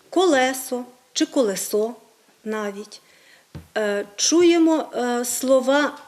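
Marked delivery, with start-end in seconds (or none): 0.1-1.9 «колесо чи колесо» з наголосом на другому, потім на останньому складі; наголоси «колесо» хибно: колЕсо, колесО; неправильний наголос. Shown as a demonstration. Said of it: "ми часто з вами чуємо". (хибний наголос у слові «колесо»)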